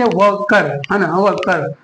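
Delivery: वर्कर said slowly, ending on a clear कर; slow model word. Shown as a demonstration. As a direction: demonstrate वर्कर syllable by syllable. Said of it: "कर का जो है pronunciation".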